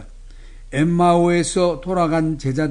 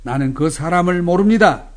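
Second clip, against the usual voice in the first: mildly raised voice, building to the end; emphatic sworn denial; 4 dB louder than usual. Retold or imitated. Disciple denying his master to soldiers, retold as an emphatic denial. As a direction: deny it firmly, swelling on the last word. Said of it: "저주하고 맹세하며 말했습니다".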